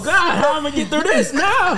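put-on high, fast fretful old man; grandpa voice. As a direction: wail it like a frantic grandpa. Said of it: "Is that the grandpa voice now?".

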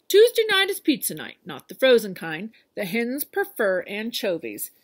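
bossy farmer reading out orders, loud start; lightly voiced farmer, loud and quick at first; Farmer Brown's note. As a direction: instruct like a fussy farmer.

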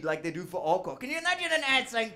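ordinary delivery

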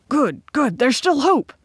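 high, loud burst of hope; hopeful cry. A narrator's reading. Emain hears the rebels have not reached the island, crying out. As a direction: cry out in eager relief. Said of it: "cried Emain".

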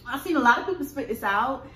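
speaking with mouth full; chewing between words; talking while biting food. Real, not acted. Seen 3: Woman holds wrapped pickle at her mouth, biting while speaking.

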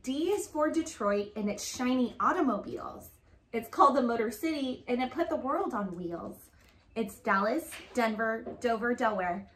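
lively picture-book read-aloud; reading to children. Acted. Mom reading an alphabet book to her daughter, storytelling voice. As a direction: read it like a storybook for a little girl.

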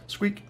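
short high squeak; toy squeak. A narrator's reading. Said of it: "The toy gives out a sad".

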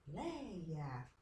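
"Leia" with LEI drawn out; stress on LEI. Shown as a demonstration. Teacher answers which syllable is strong, stressing LEI in "Leia". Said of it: "qual é a sílaba forte?".

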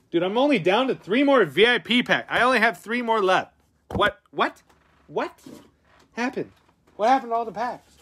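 high-pitched comic bewilderment; mock dismay. Streamer finds only three packs left, mock dismay. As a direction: squeak it out in exaggerated disbelief.

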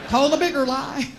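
a giggling aside about lying again; laughing. Real, not acted.

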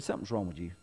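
a soft, hushed imitation of the wife's concern; imitated worried wife. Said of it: "and she just said".

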